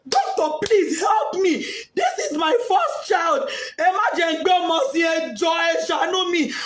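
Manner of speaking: high pleading cry; begging. Retold or imitated. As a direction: plead with the doctor through grief. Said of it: "begging doctor".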